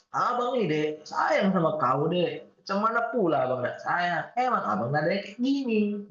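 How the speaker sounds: Medan man, kind. Pretend. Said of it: "ngomongnya kenceng tapi dia bagus kayak".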